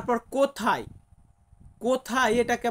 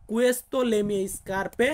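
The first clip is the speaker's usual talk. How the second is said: "Questo le mie scarpe" again, very slow with a rising end; slow repeat; much slower than usual. Shown as a demonstration. Teacher repeating the Italian sentence for students. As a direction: repeat "Questo le mie scarpe" slowly, lifting the last word. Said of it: "আমরা একই বলবো".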